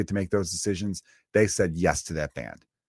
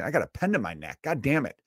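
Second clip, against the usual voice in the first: hammed-up dying thug, much higher; mock panicked mugger; 8 semitones higher than usual. Mugger with a pen in his neck, hammed-up panic. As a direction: whine like a crook facing death. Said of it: "They're thinking".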